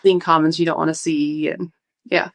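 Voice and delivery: slightly breathless talk; talking a bit short of breath. Real, not acted. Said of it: "obviously you are a little bit out of breath".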